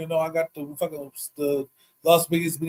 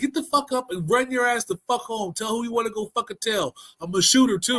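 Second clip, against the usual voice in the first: higher mock threat; threatening; 6 semitones higher than usual. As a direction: warn him off, rough and raised. Threatening the man he robbed.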